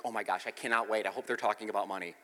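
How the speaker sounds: mock eagerness. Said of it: "you're like".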